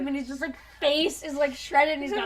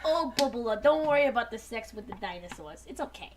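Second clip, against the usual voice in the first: Jewish stereotype voice. Retold or imitated. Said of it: "turning into, like, weird, like, just Jewish stereotype".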